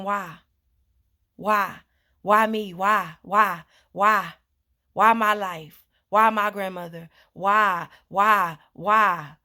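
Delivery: anguished why. Retold or imitated. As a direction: demand answers from life, rising.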